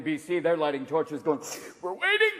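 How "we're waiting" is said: high sing-out with rising end; calling out expectantly. Acted. Torch lighters in Canada calling that they wait, high-pitched call. Crowd with lit torches calls out.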